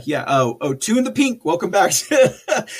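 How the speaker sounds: ordinary talk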